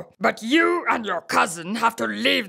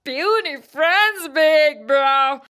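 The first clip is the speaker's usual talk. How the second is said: scornful laugh, then a sneering jab; mocking laugh; 3 semitones higher than usual. Bhopoo sneers at Big Bro's friends, laughing.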